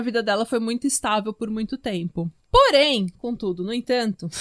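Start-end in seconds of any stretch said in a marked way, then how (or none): 2.5-4.3 theatrical turn. Real, not acted. Theatrical pile-up of connectives before twist.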